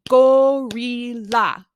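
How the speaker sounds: Gorilla slow and loud, every syllable clapped out. Shown as a demonstration. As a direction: beat out each syllable of Gorilla. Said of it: "clap with the syllables".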